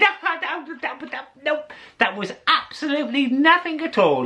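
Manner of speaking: put-on high, lilting old fella telling a tall tale; old fisherman voice. Old fisherman boasting to the narrator about mist. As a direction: spin the yarn like an old Irish fisherman. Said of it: "He said".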